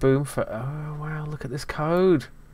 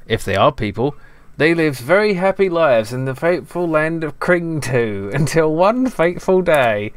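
put-on reading his teenage story aloud, amused; hammy storybook narration of old game text; lightly voiced story narration, half laughing; mock fairy-tale reading; 3 dB louder than usual.

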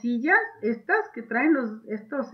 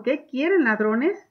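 questioning; 2 semitones higher than usual. Shown as a demonstration. Teacher rereads the question to the robbers. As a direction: press the robbers for an answer. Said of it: "les está preguntando".

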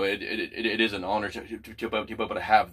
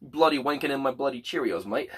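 put-on higher-pitched Australian-English accent; mock Australian accent; 4 semitones higher than usual. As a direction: play up a hammy Aussie accent. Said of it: "sound kinda similar in their accent".

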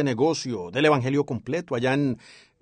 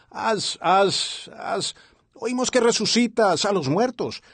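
mocking priest; 4 semitones higher than usual. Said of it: "oyó al sacerdote que decía".

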